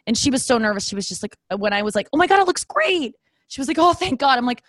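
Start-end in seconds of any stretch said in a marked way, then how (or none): 2.1-3.1 much higher, delighted praise; gushing. Retold or imitated. Customer gushing about her new haircut. 3.8-4.4 high, relieved sigh of words; relieved hairdresser. Retold or imitated. Nervous hairdresser relieved by the praise.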